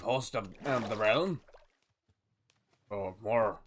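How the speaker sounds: lightly voiced pirate, halting as he hunts for words; pirate captain. Pirate telling viewers who shares the boat, lightly voiced pirate. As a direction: explain it in loose pirate talk.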